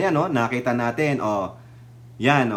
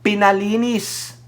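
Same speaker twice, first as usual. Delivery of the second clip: ordinary delivery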